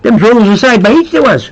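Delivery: playful Newfoundland dialect; Newfoundland accent. Pretend. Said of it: "getting up in the Newfoundland".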